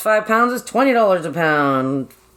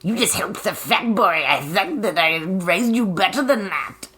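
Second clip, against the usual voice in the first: wicked stepmother. Retold or imitated. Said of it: "she was very, like".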